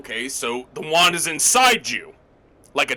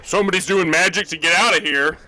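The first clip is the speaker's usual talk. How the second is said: fast, loud guard announcement; 4 semitones higher, 4 dB louder, faster than usual. Acted. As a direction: bark it out like a prison guard. Guard calling out magic use.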